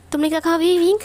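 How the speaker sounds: shocked question. Acted. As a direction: ask it in stunned disbelief, pitch lifted. Character shocked at not being recognised.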